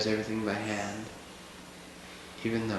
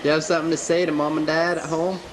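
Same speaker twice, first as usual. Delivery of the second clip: raised voice calling someone over; 6 semitones higher, 4 dB louder than usual. Real, not acted. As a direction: call out to him across the room. Calling out to the elder.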